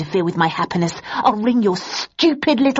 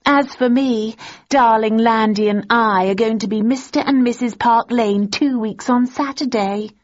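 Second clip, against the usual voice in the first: higher, louder gloating; 5 semitones higher, 3 dB louder than usual. A narrator's reading. Daisy gloating to Thursday about Landon, higher. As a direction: rub it in sweetly.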